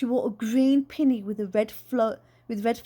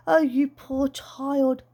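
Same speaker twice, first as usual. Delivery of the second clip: pitying; 2 semitones higher, much slower than usual. Acted. Aunt hugging child.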